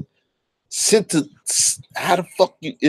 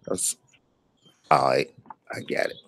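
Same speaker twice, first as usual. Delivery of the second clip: quiet mutter; 13 semitones lower, 7 dB quieter than usual. Real, not acted. Muttering to himself while typing.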